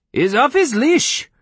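high, slow, loud outraged splutter; high-pitched outraged protest. A narrator's reading. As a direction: splutter in shrill indignation. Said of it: "he spluttered".

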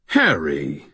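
mock-shocked, projected for eavesdroppers; scandalized. Thomas to Harry, projected for the bugs, mock scandalized. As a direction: play the outraged brother for the bugs. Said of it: "in a scandalized tone".

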